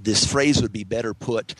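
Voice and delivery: normal talking voice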